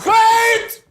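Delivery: high loud exclamation; sudden cry. Acted. Officer halting his clerk at the door, sudden high cry. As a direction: stop everyone short.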